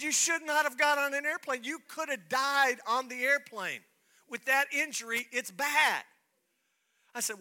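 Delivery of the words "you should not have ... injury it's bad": higher, louder stern warning; scolding doctor. Retold or imitated. Doctor scolding the pastor for flying, raised and stern. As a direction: scold him like a worried doctor.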